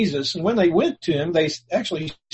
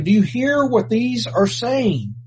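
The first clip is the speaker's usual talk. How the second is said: indignant priests; 7 semitones higher, 4 dB louder, slower than usual. Acted.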